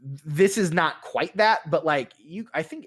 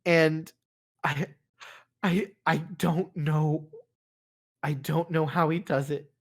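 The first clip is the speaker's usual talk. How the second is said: mild crying; 2 semitones higher than usual. Acted. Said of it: "And she's crying more".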